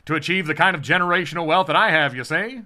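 a glamorous mid-Atlantic star voice; mid-Atlantic accent. Retold or imitated. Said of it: "mid-Atlantic accent".

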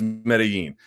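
Medellin with the double L as a Y; Y sound in Medellin. Shown as a demonstration. Telling critics what nobody in Colombia says, Y-sound Medellin. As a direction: say Medellin as "meda-YEEN". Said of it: "nobody says Medellin".

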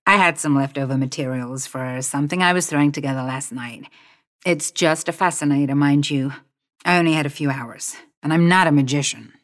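a lightly voiced Tracy, brushing it off; modest designer. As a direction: wave off the praise quickly.

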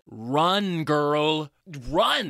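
loud, rising urgent cry; retold urgent shout. Viewer urges cowering Jess to flee, urgent shout. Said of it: "I said out loud".

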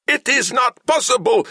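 very high, squeaky mechanical fury; a frustrated machine stuck up an octave; furious robot. A narrator's reading. Samhet rages at the fruitless search, furious squeaky robot voice. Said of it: "Samhet muttered furiously".

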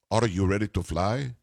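mock thick Dutch accent; Tom Hanks. Host mimicking the actor's Colonel Parker, thick Dutch accent. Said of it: "Tom Hanks does that accent the whole movie".

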